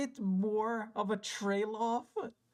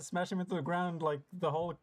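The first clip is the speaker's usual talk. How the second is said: normal talking voice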